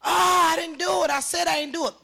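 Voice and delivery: high-pitched retold wail of denial; imitated screaming. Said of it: "you could hear a person screaming".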